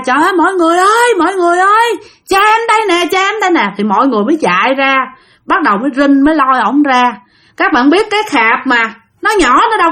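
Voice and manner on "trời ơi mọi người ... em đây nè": high, fast panicked cries for help; calling out in panic. Retold or imitated. Daughter finding her father in the salt jar, crying out high for help. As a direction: shriek for everyone, rushed and high. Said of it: "lúc này cô này la".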